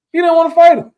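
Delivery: high mocking punchline. Real, not acted. Punchline about fighter ducking.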